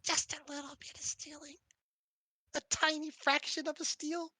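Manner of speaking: high, coaxing little voice; cutesy, cajoling plea; wheedling. Acted. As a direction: beg for a tiny allowance. Coaxing companion into allowing theft.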